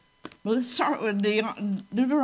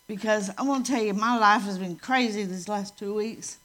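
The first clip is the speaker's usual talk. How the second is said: dry mouth, words thick and sticky; cotton mouth. Real, not acted. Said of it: "it feels like I've got cotton in my mouth".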